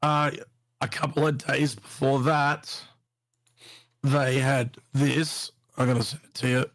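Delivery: slurred, groggy speech after anesthesia. Real, not acted. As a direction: talk thick and groggy, still numb. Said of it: "sorry, I'm talking a bit weird".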